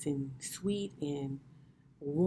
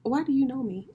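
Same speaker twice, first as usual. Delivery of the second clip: higher, louder, delighted shock; amazed disbelief; 10 semitones higher, 6 dB louder than usual. Retold or imitated. Best friend reads her perfectly, amazed high outcry. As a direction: caught out by how well she's known. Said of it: "And I was just like".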